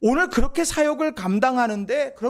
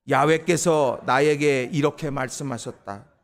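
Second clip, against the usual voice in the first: slow, measured, lower reading; unison scripture reading; 6 semitones lower, 3 dB louder than usual. Acted. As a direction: read each phrase slowly with the congregation. Congregation reads scripture together.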